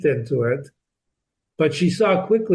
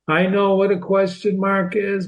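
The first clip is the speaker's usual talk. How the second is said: dismissive student; 4 semitones higher than usual. Pretend. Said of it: "you may know these things".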